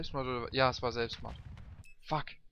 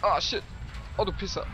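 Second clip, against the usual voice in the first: startled shout; 7 semitones higher, 7 dB louder than usual. Real, not acted. Attacked while driving.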